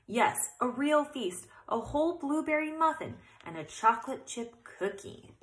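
a lightly voiced mother, bright with delight; mother gushing over the feast; happy and carefree. A narrator's reading. A mother mouse cheerfully announcing the feast, lightly voiced. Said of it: "sounded happy and carefree".

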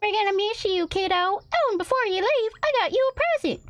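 high-pitched cowboy mom voice; fond mom. Acted. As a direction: voice a country mother sending off her kid.

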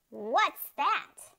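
high, loud astonished question; gasping. A narrator's reading. Beach attendant puzzled by the creature, gasping. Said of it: "one of them gasped".

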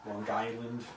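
Long Island vowels shown off word by word; Long Island "aw" in toffee and coffee; Long Island accent. Shown as a demonstration. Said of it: "that is my accent. I'm proud of it".

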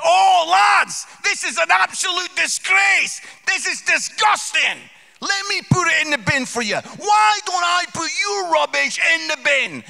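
high, very loud indignant yelling; litter-rage outburst. Retold or imitated. Dad scolding litterers outside his car, high enraged shouting.

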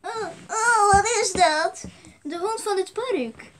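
high, teary voice breaking into sobs; sad crying. Acted. Sad figure pushes the park dog away, crying. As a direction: whimper it, near tears and slow at the end. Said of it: "Ik ben al zo triestig".

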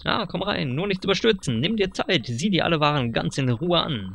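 lightly voiced pushy dealer, rising on the pitch; sly salesman. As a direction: sell it like a slick huckster. (leicht gespielter, schmieriger Händler)

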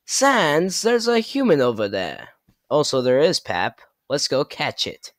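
lightly voiced cartoon villain calling a partner; eager call that swoops up, then falls; Papyrus impression. Papyrus calls Sans to catch a human, lightly voiced character. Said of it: "Sans, Papyrus, Bowser".

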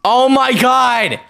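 high, stretched-out desperate wail; desperate pleading. Real, not acted. Gamer begging for a spawn with seconds left, desperate pleading.

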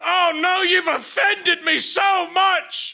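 slow, mock-wounded sarcasm; sarcastic hurt. Player answers a heckler's insults, sarcastically hurt. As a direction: drag out the fake offense.

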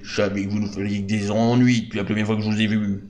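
accusing hero voice. Acted. Accusing villain, acted NPC line.

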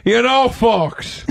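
slow drawn-out talk-show host opener; lightly voiced Scottish host; Craig Ferguson impression. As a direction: stretch out folks like a late night host. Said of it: "the Craig Ferguson voice".

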